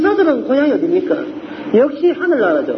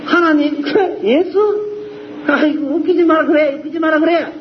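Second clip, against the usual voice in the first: scoffing sceptic; 4 semitones higher than usual. Retold or imitated. Preacher imitates a sceptic brushing off God, mocking scorn. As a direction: sneer at the idea like a scornful unbeliever. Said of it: "아마 반박할 거예요".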